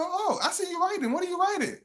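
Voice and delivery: high, soft curious voice; playful imitation of a Gemini woman prying; mock nosy woman. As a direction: coo the question up high. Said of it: "You know".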